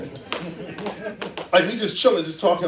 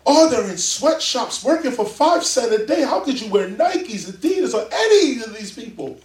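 mock outrage; 4 semitones higher than usual. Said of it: "we used to look back in the days and say".

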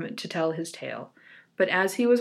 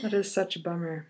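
laughing whisper; 3 semitones lower, 8 dB quieter, faster than usual. Real, not acted. Laughing whisper at sad ending.

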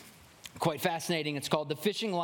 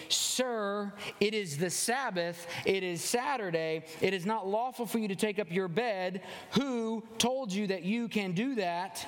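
higher-pitched, measured scolding, acted out; officious rebuke; 5 semitones higher than usual. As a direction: act out a rule-keeper confronting an offender, word by word. Jews confront the healed man.

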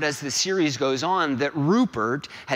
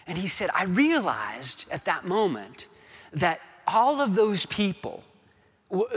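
higher-pitched, earnest retelling of a coach's speech; Ted Lasso; 3 semitones higher than usual. Retold or imitated. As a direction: lightly voice the coach telling his story. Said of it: "try to get the gist of it, of Ted Lasso's words".

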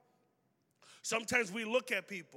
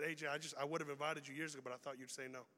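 quiet confession; 6 semitones lower, 9 dB quieter, faster than usual. Pretend. Friend confesses never inviting.

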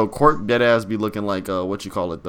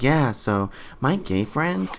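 frat bro; 3 semitones higher, 4 dB quieter, much slower than usual. Retold or imitated. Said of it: "He was like".

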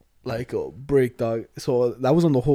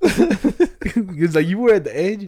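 slow words through laughter; laughing; 4 semitones higher, 4 dB louder, much slower than usual. Real, not acted. Telling friend about slobbered bed, laughing. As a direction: laugh it out slowly.

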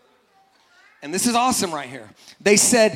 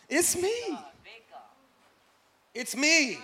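higher, softer reassuring voice; soft reassurance; 5 semitones higher, 10 dB quieter, slower than usual. Acted. Jesus softly reassures the frightened disciples, higher and softer. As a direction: hush them gently, it's only you.

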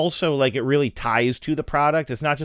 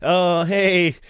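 put-on eager camper kid; 7 semitones higher, 3 dB louder than usual. Kid at summer camp voiced.

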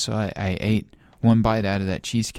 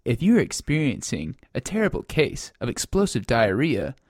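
hotline recording voice; 5 semitones higher than usual. Acted.

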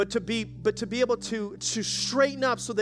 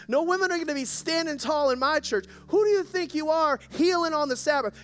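upset senior pastor; 5 semitones higher than usual. Retold or imitated. Senior pastor scolding Jesus for healing on the Sabbath, indignant and raised. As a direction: bristle at the upstart healer. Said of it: "the senior pastor of the church gets all upset and says".

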